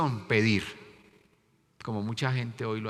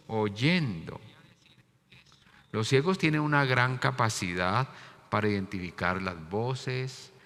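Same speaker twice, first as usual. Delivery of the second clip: ordinary talk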